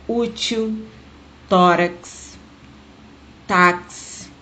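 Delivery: "útil, tórax, táxi", each first syllable stressed; stress on penultimate syllable. Shown as a demonstration. Teacher giving paroxytone examples, "útil, tórax, táxi" stressed on the penultimate. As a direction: separate words, leaning on Ú, TÓ, TÁ. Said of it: "a sílaba tônica é a penúltima".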